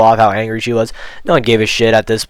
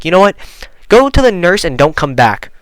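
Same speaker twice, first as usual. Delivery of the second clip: higher-pitched retold teacher's snap; exasperated dismissal; 6 semitones higher than usual. Teacher sending sick student to the nurse, exasperated. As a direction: imitate a fed-up teacher sending someone off.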